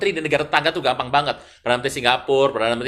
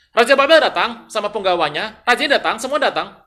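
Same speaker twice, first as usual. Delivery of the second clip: high, loud, self-important answer; acted boasting king; 6 semitones higher, 8 dB louder than usual. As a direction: show off your famous guests, hesitating on the list. Acts king boasting of guests. (lagak raja pamer, lantang)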